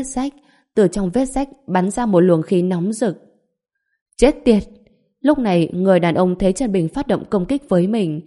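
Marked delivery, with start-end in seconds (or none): 4.2-4.6 sharp, higher angry curse. Acted. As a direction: spit out the curse in alarm. Man curses as attack comes.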